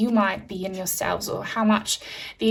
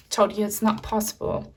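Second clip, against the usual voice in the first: ordinary talk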